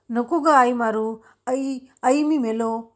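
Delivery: put-on child wailing under a beating, slow and high; crying out. A narrator's reading. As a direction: beg the mother to stop, drawn out. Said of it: "मी ओरडू लागलो".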